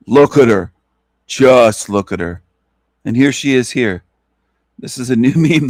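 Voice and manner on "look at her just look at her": louder mocking call. Real, not acted. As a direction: look punched with a falling tune, louder. Mocking the meme.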